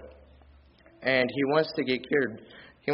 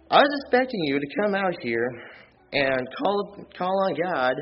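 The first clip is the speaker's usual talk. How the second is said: indignant Naaman; 3 semitones higher than usual. Acted. Naaman complaining to Elisha about the Jordan, mock indignant. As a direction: play a miffed man who thinks he deserves better. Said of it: "And he got mad".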